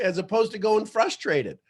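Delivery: ordinary delivery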